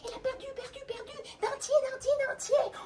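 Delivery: high chirpy bird chant; chirping birds. Acted. The forest birds chirping the news, high and sing-song. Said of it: "tous les oiseaux de la forêt disent".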